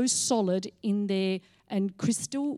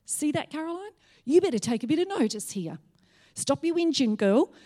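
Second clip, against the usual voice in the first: imitating the Lord, a higher, gently scolding voice; 5 semitones higher than usual. Retelling how the Lord told her to stop whinging, lightly voiced stern Lord. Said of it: "the Lord was going".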